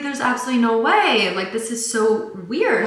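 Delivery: a touch of shocked protest; mock disbelief. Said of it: "I was like".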